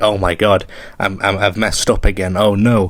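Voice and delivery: ordinary talk, nothing marked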